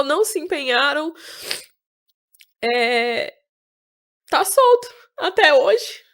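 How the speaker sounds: slow, tearful. Real, not acted. Grief over killer never caught.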